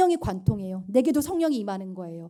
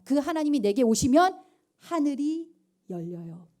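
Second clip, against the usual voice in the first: ordinary talk, nothing marked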